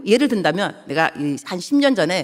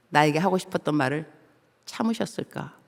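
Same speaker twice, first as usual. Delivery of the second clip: hushed awe; 3 semitones lower, 6 dB quieter than usual. Acted. Moved realisation of God's restraint.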